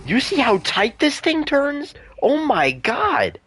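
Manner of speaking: high, excited exclaiming; hyped up shouting at the game. Real, not acted. Excited yelling about dinosaur turning.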